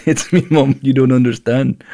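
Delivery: Irish attempt drifting towards Jamaican; botched Irish accent. Embarrassed prisoner defending his mom, botched Irish accent. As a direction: play at an Irish accent, badly. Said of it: "It sounded Jamaican".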